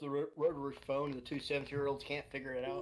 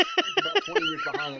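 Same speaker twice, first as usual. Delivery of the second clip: laughing; 9 dB louder than usual. Real, not acted. Laughing while mocking the country.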